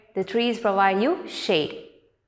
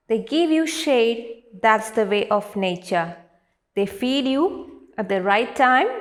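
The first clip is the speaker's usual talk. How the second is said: poem recitation. Acted. Teacher reading a nature poem to grade three, poem recitation. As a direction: recite verse line by line, pausing after each. Reads poem stanzas aloud.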